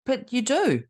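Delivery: mildly insistent retold teen objection; lightly voiced teenage girl. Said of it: "talking to a sixteen-year-old girl".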